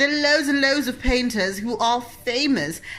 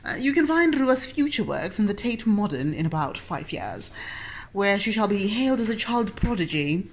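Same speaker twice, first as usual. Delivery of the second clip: gallery commentator. Pretend. Mock art commentary on child painting.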